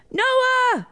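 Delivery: high-pitched calling yell; boy yelling a name; loud yell. A narrator's reading. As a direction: holler for a brother across the house. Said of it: "he yelled really, really loud".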